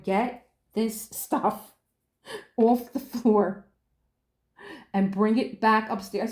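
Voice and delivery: slow, laughing stern command; slow stern order. Retold or imitated. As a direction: spell it out slowly and firmly. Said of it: "I'm like".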